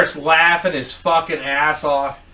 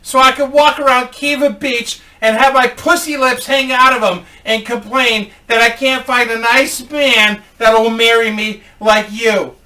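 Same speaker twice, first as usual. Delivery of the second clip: higher, louder mock whine; raised voice sending up an entitled customer; 6 semitones higher, 5 dB louder than usual. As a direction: put on a loud, higher complaining customer. Mocking a female customer's complaint.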